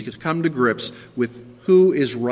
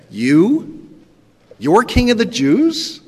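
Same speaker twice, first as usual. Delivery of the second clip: disbelieving question, rising higher; incredulous; 7 semitones higher, 5 dB louder, slower than usual. Shown as a demonstration. Preacher showing Pilate's disbelief, incredulous. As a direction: say it as if you can't believe it. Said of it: "the sense is far more incredulous".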